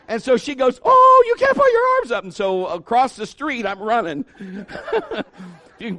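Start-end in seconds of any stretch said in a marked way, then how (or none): 0.8-2.2 very high, loud shriek; sudden hammed-up screech of alarm; panicking sister.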